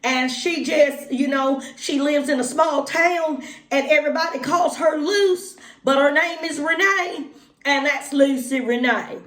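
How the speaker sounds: Lucy Renee voice. Acted. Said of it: "Lucy Renee talks like this".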